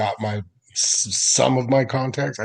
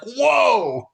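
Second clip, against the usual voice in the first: surprised; 4 dB louder than usual. Retold or imitated.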